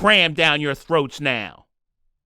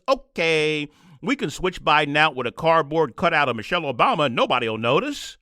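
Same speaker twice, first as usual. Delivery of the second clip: mocking pundits; 4 semitones lower than usual. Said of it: "the same exact people telling us".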